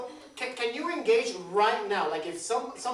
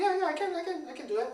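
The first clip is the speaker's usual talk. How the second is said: mock confident; 9 semitones higher, faster than usual. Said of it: "you go like".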